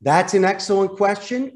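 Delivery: upbeat, pleasant phone reply; a polite plus-two reply; friendly buffer. Shown as a demonstration. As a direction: salesman buffering a negative caller, warm and upbeat. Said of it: "So I can buffer it".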